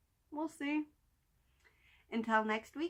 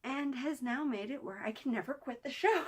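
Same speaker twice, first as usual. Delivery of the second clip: laughing; 3 semitones higher than usual. Real, not acted. Laughs at own devotion.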